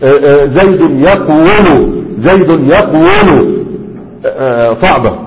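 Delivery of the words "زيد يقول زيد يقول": زيد يقول drawn out very slowly to show the heavy original; original heavy form. Shown as a demonstration. Teacher slowly demonstrating the heavy original form of زيد يقول. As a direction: sound زيد يقول slowly, weighing each syllable. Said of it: "هي أصلها يفعل".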